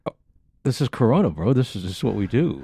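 muffled through a face mask; words muffled by a mask; talking through mask. Real, not acted. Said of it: "talking through this mask".

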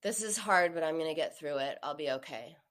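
gloomy monotone self-talk; funeral tone. Retold or imitated. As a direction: say it like a funeral dirge. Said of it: "He sounded like he was at a funeral".

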